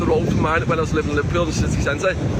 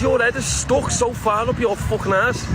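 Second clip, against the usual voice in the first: high, drawn-out insult; retold fuming; 6 semitones higher, slower than usual. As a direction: act out telling her off slowly in a raised pitch. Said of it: "I was fuming".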